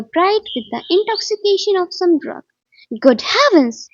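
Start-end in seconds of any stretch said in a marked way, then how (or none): 3.0-3.9 loud, startled exclamation; exclaiming. A narrator's reading. Man facing Sherlock Holmes in the park, exclaiming. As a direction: burst out in recognition. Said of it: "I exclaimed".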